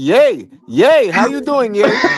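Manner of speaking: put-on Spanish-accented English, j as y. Imitating how their Spanish students pronounce J: Spanish-accented English, J as Y. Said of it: "when you Spanish, you don't pronounce the J. Like all my Spanish students, they be like".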